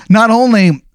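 halting acted indignation, phrase by phrase; angry owner. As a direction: play the fed-up owner, building to the last word. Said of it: "he goes".

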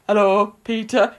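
put-on phone greeting in another woman's voice; lightly mimicked phone voice; Carla impression. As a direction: pretend to be someone else answering the phone. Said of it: "does a really good impression of".

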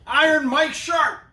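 high, slow, loud wrestling-announcer call; ring announcer shout. Acted. Host announcing the wrestler to live viewers, big announcer shout. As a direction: bellow the name like a ring intro.

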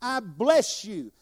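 slow, promising tone; slow reassuring voice of God. Acted. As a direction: speak as God comforting, slowly. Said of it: "So God says".

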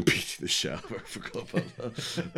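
words breaking up into real laughter; helplessly amused, laughing through it; laughing while talking. Real, not acted. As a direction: talk through a fit of laughter. Cracking up at co-host's reminder.

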